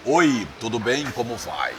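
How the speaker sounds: slow, deep, smooth announcer greeting; a lightly deepened, drawn-out DJ hello; radio announcer voice. Shown as a demonstration. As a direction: put on the velvet radio voice. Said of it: "aquela voz que fala assim".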